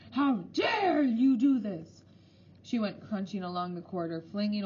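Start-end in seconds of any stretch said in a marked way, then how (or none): 0.1-2.0 very high, slow, drawn-out shriek. A narrator's reading. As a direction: shriek it down the corridor. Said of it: "she was shrieking".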